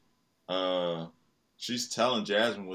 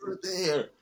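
put-on high, slow bossy kid voice; little girl playing stern dad; child imitating dad; 10 semitones higher than usual. Daughter mimics dad's order.

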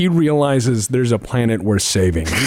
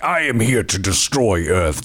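lower, mock-menacing villain; evil space invader; 5 semitones lower than usual. Space invader announcing he will destroy Earth, evil voice. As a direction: proclaim it like a B-movie alien.

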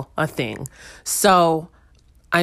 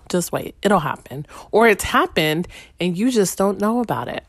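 normal talking voice

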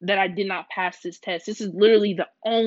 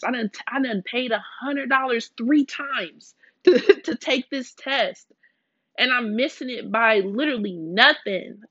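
exasperated plea to God; 4 semitones higher than usual. Retold or imitated. Retold desperate prayer to God.

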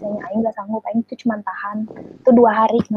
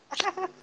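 light high-pitched giggle; quiet squeaky laughter; high, soft laugh; 9 semitones higher, 13 dB quieter than usual. Real, not acted. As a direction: giggle softly at a gross joke. Laughing at salty cockroach joke.

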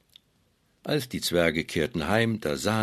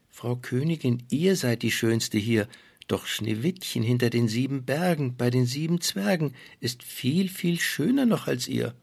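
magic mirror; 4 semitones higher than usual. Acted.

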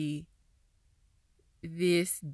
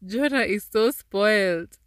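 loud exclaim; 4 semitones higher, 9 dB louder than usual. Real, not acted. Exclaiming after reading.

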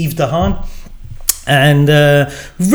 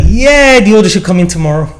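breezy shopkeeper; 3 semitones higher, 5 dB louder than usual. Retold or imitated. Voicing the straw shop man.

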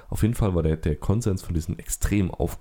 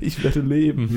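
mustache twirling villain; 7 semitones higher, 4 dB louder, slower than usual. Pretend. Echoes villain triumph.

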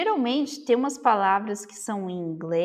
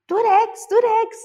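emphatic repetition; 12 semitones higher, 7 dB louder, slower than usual. Retold or imitated. Repeating the word emphatically.

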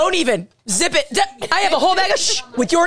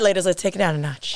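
low sultry voice, softer at the end; 8 semitones lower, 3 dB quieter than usual. Pretend. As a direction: drop into a sultry purr. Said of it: "As I get my sultry voice on".

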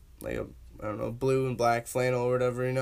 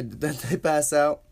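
laughing; slower than usual. Real, not acted. Laughs while telling it.

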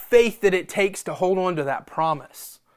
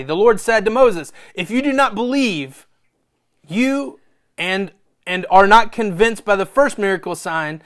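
raised, emphatic read-aloud voice; scripture reading; 2 semitones higher, 4 dB louder than usual. A narrator's reading. Preacher reading Moses' signs to the congregation, emphatic reading. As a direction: read the passage out with drive. Reads Bible passage aloud.

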